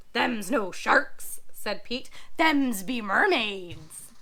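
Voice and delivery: low, slow pirate drawl; calm the parrot down slowly. Acted. Pirate Pete voice.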